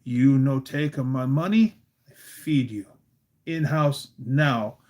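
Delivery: Polish grandmother's broken English; terse order in a light Polish-immigrant voice; Busha. Retold or imitated. Busha ordering the boys in to eat, Polish-accented and stern. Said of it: "She says".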